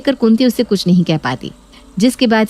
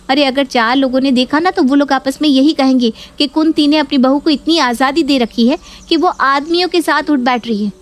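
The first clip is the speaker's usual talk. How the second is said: a higher, indignant daughter stirring up her mother; lightly voiced nagging daughter; scheming daughter complaining; 4 semitones higher than usual. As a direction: whip up outrage about the sister-in-law. Neha shows photo, accuses.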